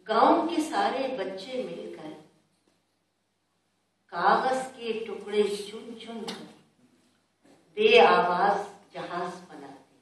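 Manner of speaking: measured verse reading with long pauses; poem recitation. Acted. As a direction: recite line by line, letting each phrase fall. छोटी सी नज़म है.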